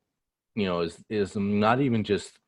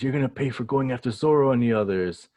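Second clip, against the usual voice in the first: quick, raised mock threat; villain's threat; 5 semitones higher, 4 dB louder, faster than usual. Recapper as Big Mom vowing revenge, threatening. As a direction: fire it off high as a threat.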